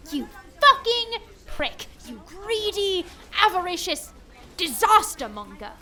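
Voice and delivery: high, bitter outburst; furious curse. Acted. Rich man curses his insurer after the call. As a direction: spit the insult after the call ends.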